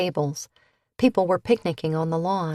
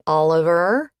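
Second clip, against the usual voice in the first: louder cautioning call; 6 dB louder than usual. A narrator's reading. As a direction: warn him by name, firmly. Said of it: "his legal stepmom cautioned".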